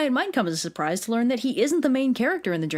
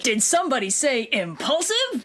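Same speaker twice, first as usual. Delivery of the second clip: acted stone monkey; 3 semitones higher, slower than usual. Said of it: "And the stone monkey is like".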